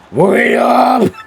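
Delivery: high, loud call to stop them; shouting after. Acted. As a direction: yell for them to wait. Calling after departing ship.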